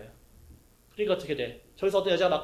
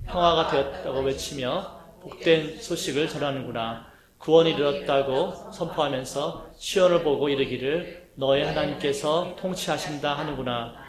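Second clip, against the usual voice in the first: slow, louder unison Bible reading; reading scripture together; 3 dB louder than usual. Real, not acted. Congregation reading Isaiah in unison with the pastor, slow and strong. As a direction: read Isaiah aloud slowly with the congregation. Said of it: "시작".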